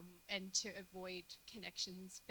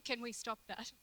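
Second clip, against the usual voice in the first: louder, higher, clearer request; repeated to be heard; 4 semitones higher, 6 dB louder than usual. Real, not acted. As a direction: raise your voice for someone who missed it. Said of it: "You what, sorry?".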